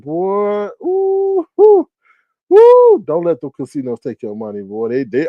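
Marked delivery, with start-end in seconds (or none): 0.0-3.0 high, slow rising woo; rising wordless dismay; overwhelmed. Real, not acted. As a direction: squeal it out, overwhelmed. Overwhelmed exclamations.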